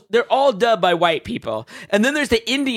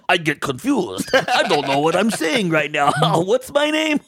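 mock old man dub voice. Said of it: "old Korean dude".

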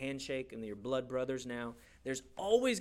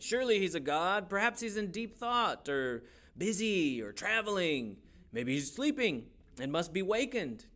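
mild taunt; 5 semitones higher than usual. Acted. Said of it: "began to taunt them".

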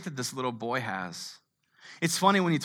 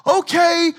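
mock reluctant okay; 12 dB louder than usual. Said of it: "you're like".

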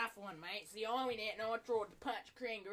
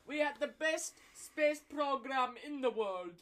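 put-on Russian accent; 3 semitones higher, 4 dB louder than usual. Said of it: "Russian is hard".

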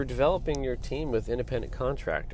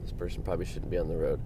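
muttered exasperation; 8 semitones lower, 9 dB quieter than usual. Real, not acted. Muttering at slow driver.

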